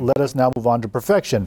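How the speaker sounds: plain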